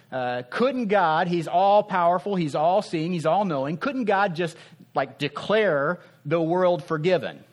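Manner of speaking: mock exasperated doubter; incredulous questioner. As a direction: play the baffled sceptic asking why. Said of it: "people who say".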